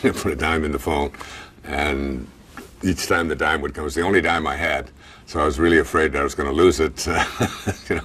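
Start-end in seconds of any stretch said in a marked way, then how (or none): 5.2-8.0 chuckling through the words, a bit quick; laughing. Real, not acted. Telling the listeners about the dime, laughing.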